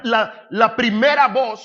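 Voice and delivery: high, forceful declaration; emphatic preaching. Real, not acted. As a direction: drive the point home loudly. Preacher hammering his point.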